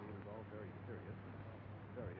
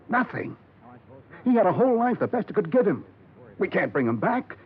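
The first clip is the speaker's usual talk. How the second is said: impassioned pleading; 10 semitones higher than usual. Acted. Partner pleads to drop case.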